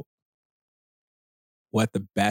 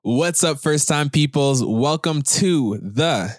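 host intro; 4 semitones higher, much slower than usual. Acted.

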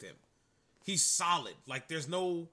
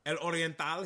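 Spanish accent. Shown as a demonstration. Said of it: "my Spanish accent".

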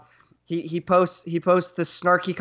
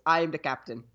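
softer put-on African accent; imagined African accent; 2 semitones lower, 6 dB quieter than usual. Shown as a demonstration. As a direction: toss it off quietly in a mock African accent. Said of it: "African accent always".

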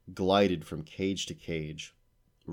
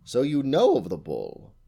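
higher, louder pounce; sharp challenge; 7 semitones higher, 8 dB louder than usual. A narrator's reading. Witch seizing on the unicorn's words, sharp and loud. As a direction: catch her out on it.

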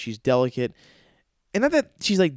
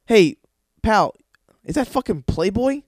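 mock manager; 8 semitones higher, 4 dB louder than usual. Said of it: "you're like".

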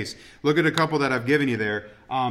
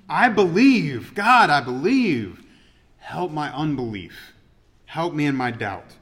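earnest pleading prayer; slower than usual. Retold or imitated. Preacher reenacts father's prayer.

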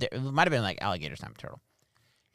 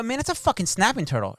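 mock exasperated yell; 11 semitones higher, 4 dB louder than usual. Retelling an argument with his wife.

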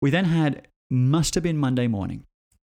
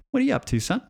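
mock mum voice; 10 semitones higher, faster than usual. Mum voiced in imagined scene.

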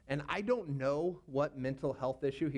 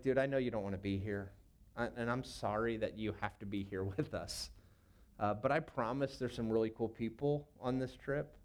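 gentle comfort; 3 semitones lower, 3 dB quieter than usual. Retold or imitated. Consoling the homesick kid.

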